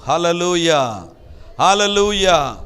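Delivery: building praise shout; loud hallelujah. Real, not acted. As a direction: call it out to the congregation. Preacher calls out praise.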